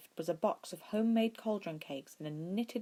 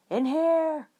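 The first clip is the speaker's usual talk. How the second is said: much higher, louder call; calling back; 12 semitones higher, 9 dB louder than usual. A narrator's reading. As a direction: shout from the next room. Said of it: "Ed called back from the living room".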